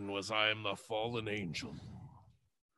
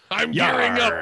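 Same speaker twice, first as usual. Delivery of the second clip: pirate voice; 9 semitones higher, 10 dB louder, faster than usual. Acted. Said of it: "You sound a bit like a pirate".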